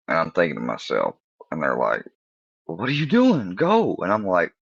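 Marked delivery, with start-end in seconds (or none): 2.7-3.9 high-pitched impatient friends; squeaky-high nagging mimicry; mock urging. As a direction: imitate pals egging you on, pitched up.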